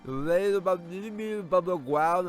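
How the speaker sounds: put-on a girl happily explaining a model; chirpy girl voice. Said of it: "Alright, I'm gonna stop doing that".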